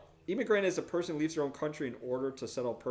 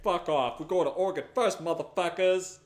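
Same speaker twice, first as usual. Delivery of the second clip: taunting other wagons; 4 semitones higher, 5 dB louder than usual. Retold or imitated. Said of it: "We're like".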